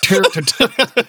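drawn-out mock Benaud numbers; Benaud twos. Friend drawing out mock Benaud number. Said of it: "some rounded kind of two".

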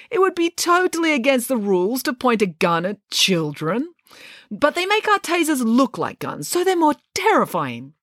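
put-on high, fussy old woman's voice; a dotty old professor explaining rules; lightly voiced elderly boss, pitched high; old lady professor. A narrator's reading.

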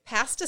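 "Pasta" with a short a, PASS-tuh; British pasta. Shown as a demonstration. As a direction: try out "Pasta" with the a of cat. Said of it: "sounds so weird".

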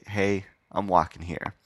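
slow, understated New York accent. Shown as a demonstration. Showing the bare catchphrase, mild New York accent. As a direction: lightly put on New York, unhurried. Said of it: "but I just wanna say".

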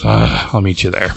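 resigned sigh into the words; sigh, then give in reluctantly. Retold or imitated. Boom Boom agrees to meet Jubilee, sighing reluctantly. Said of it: "She kinda sighs and goes".

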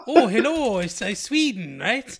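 high, loud mock Swedish accent; a hammed-up attempt at a Swedish lilt; bad Scandinavian accent. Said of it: "not even close".

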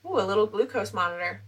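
quiet, cooing tone; cooing over something cute. Real, not acted. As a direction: coo like it's adorable. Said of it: "the way you said it".

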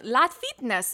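"La Fitness" with LA as one syllable, loud; retold mispronunciation. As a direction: read the letters as the word "la" in "La Fitness". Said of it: "I didn't say it with an English".

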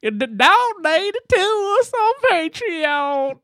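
high, slow, exaggerated Texas drawl; mocking high-pitched Texan imitation; mock Texas accent. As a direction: tease with a hammed-up Texan twang. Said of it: "Your Texas came out".

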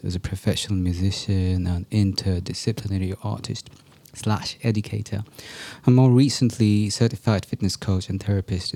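low, soft, measured promo read; podcast announcement. Acted. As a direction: read your announcement quietly and evenly. Reads recorded announcement before the show.

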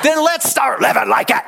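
high-pitched rallying cry; rousing exhortation. Real, not acted. Preacher urges church to live it, rousing exhortation. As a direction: drive the point home to the crowd.

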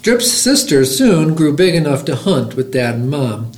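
lively, rhythmic picture-book reading; bouncy storytime narration; story read-aloud. A narrator's reading. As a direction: read a rhyming tale aloud to listeners.

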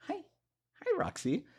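high soft voice for a pet. Real, not acted. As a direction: coo softly at the dog. Greeting the dog.

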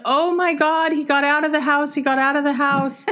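high-pitched mock panic; imitated hysterical daughter. Daughter spots the cat outside, mock-hysterical. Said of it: "my daughter just starts crying hysterically".

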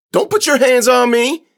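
very high, loud protest; outraged kid. Acted. Kid shoved toward the office, outraged yell.

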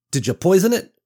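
suspicious demand. Acted. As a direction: jab the question at him. Suspicious woman threatens with branch.

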